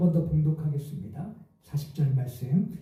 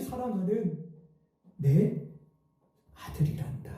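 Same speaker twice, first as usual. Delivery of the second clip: tender voice of God; 2 semitones higher than usual. Retold or imitated. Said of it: "이렇게 말씀하시더랍니다".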